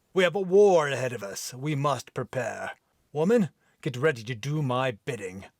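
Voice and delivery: mild commanding Viking. Acted. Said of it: "rough, deep brogue accent".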